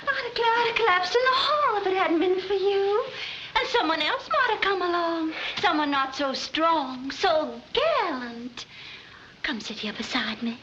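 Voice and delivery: flirty Southern belle. Acted. Seductive Southern belle act.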